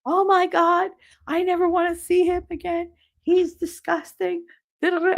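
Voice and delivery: high-pitched hysterical caller, imitated; mock meltdown down the phone; shrill retold hysteria, held high throughout. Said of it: "like, hysterical phone call".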